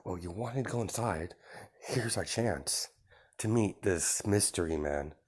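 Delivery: soft conspiratorial aside; whispering. Acted. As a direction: lean in and say it under your breath. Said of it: "whispers to Zella".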